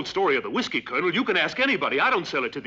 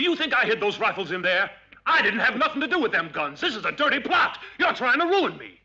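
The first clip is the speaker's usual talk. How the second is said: raised pitch, agitated denial; indignant protest; 4 semitones higher than usual. Acted. Accused trader denies the rifles to soldiers, indignant protest. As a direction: protest hotly at being framed.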